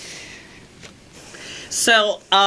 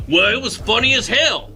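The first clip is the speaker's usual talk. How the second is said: put-on blustering boss voice, pitched up; hammed-up office bully; chauvinist boss; 7 semitones higher than usual. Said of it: "I will be your boss".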